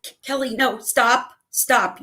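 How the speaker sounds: high, urgent stop; pleading. Retold or imitated. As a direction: beg her to stop jinxing it. Begging sister not to jinx.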